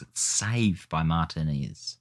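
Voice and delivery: slow, oddly stretched commentary line; slowed, strange sing-song call; odd drawn-out delivery. Real, not acted. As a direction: drag it out like a commentator. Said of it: "Don't know why I said it like that".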